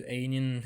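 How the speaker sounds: Ainin as two syllables, ending in "nin"; alternative pronunciation. Shown as a demonstration. Streamer offers another possible hero name, alternative pronunciation. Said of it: "we don't know the real pronunciation".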